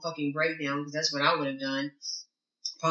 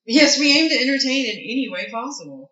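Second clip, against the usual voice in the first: laughing; 6 semitones higher, 7 dB louder than usual. Real, not acted. Laughing, echoing co-host's joke.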